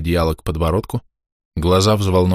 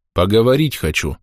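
gloomy; 4 semitones higher than usual. A narrator's reading. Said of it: "хмуро ответил участковый".

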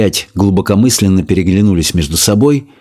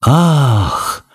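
sorrowful sigh; 3 semitones higher than usual. A narrator's reading. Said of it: "горестно вздохнула".

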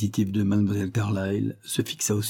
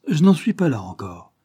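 higher, louder protest cutting in; quick interruption; 6 semitones higher, 5 dB louder than usual. A narrator's reading. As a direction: cut her off indignantly. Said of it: "interrompit Carlyle".

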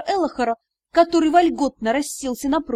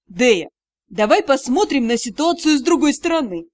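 forced cheer; 3 dB louder than usual. Acted. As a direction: fake the brightness to cheer her. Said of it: "нарочисто весёлым голосом".

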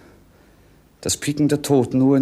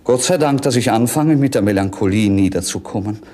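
relieved outburst; 5 dB louder, faster than usual. Acted. Prince mocks his own melancholy.

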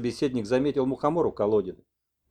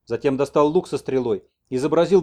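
ordinary delivery

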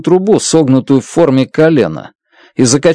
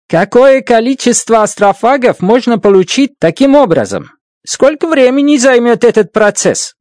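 put-on higher voice with an African accent; 9 semitones higher than usual. A narrator's reading. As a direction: speak Russian with an African accent. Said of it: "заговорил с акцентом, характерным для африканцев".

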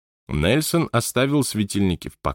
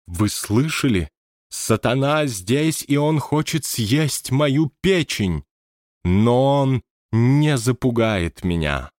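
slow, raised, dramatic proclamation; theatrical medium; 5 semitones higher, slower than usual. A narrator's reading. Scene: medium addresses viewers, hammed-up drama. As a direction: play to the camera.

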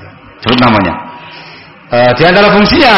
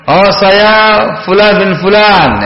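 higher, slow and clearly stated; clear self-introduction; 4 semitones higher, slower than usual. Shown as a demonstration. Guest naming himself to the house owner, clearly. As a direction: announce the full name distinctly. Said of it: "Yang jelas".

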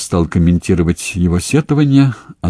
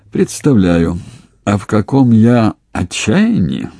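ordinary delivery

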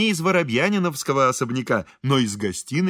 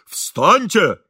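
higher, louder command; insistent order; 4 semitones higher, 6 dB louder than usual. A narrator's reading. Engineer urging the kneeling priest to get up, insistent. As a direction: exclaim it insistently.

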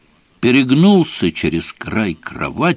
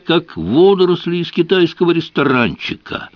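put-on spiteful drunk rant; 2 semitones higher than usual. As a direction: spit out every wish for his misery. Drunk hateful phone message.

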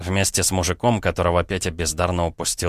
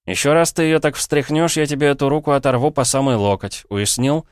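through gritted teeth; 8 semitones higher, 4 dB louder than usual. Acted. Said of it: "процедил Полозов".

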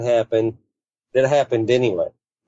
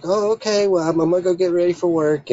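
a higher, fast, lightly voiced mom; quoting mom; 7 semitones higher, faster than usual. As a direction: rush the words out high, a hint of a flustered mother. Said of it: "she's like".

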